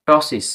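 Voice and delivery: টসিস slowly as "to-sis"; silent P demo. Shown as a demonstration. Teacher joins the syllables, slow টসিস. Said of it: "পি পুরোপুরিভাবে silence".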